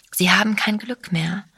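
ordinary delivery

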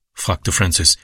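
usual speaking voice

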